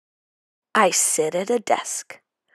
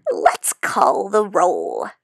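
cackling. Acted. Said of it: "cackles Missus Green".

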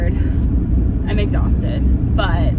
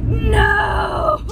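mock shout; 11 semitones higher than usual. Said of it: "and I was like".

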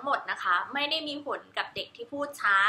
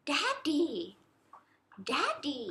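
soft demo; 2 semitones higher, 11 dB quieter, much slower than usual. Shown as a demonstration. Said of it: "แล้วก็พูดว่า".

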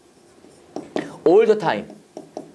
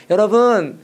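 mock gentle address; 2 semitones higher, much slower than usual. Shown as a demonstration. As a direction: pretend to address the congregation tenderly. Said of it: "어떻게 말해, 부드럽게".

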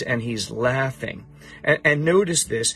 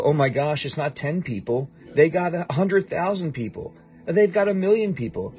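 mock alarm; 4 semitones higher than usual. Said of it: "like, God's gonna go".

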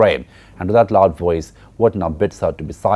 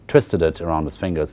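ordinary talk, nothing marked

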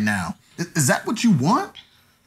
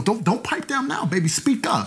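mocking whisper; 4 semitones higher than usual. Mocking her going quiet.

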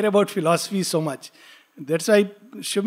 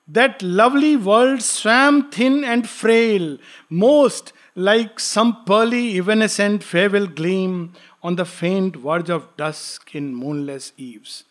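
slow, measured reading of verse; poem recitation; slower than usual. Acted. Teacher reciting Savitri to students, slow and solemn. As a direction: intone the lines slowly and gravely.

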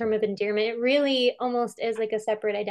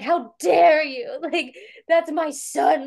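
mock outraged crowd; 5 semitones higher, 5 dB louder, much slower than usual. Crowd defending Maradona at press.

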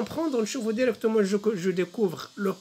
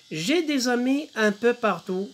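slow, higher-pitched French recitation; poem recitation; 4 semitones higher, much slower than usual. Shown as a demonstration. Teacher reads the poem to pupils, slow poem recitation. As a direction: recite the verse slowly for pupils. Reading poem aloud in lesson.

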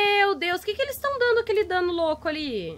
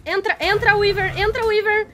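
raised, hurried repeated command; urgent pleading; 4 semitones higher, 3 dB louder than usual. Real, not acted. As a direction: urge them inside, pitch climbing. Urges Weaver to get inside.

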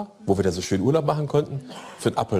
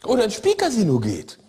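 slow scolding; 6 semitones higher, slower than usual. Retold or imitated. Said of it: "Und keiner sagt".

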